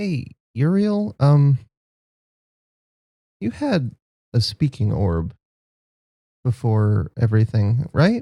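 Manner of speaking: soft, quiet, hushed voice. As Sal, walking up beside Uriel on the way off the dock, speaking quietly. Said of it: "just say quietly".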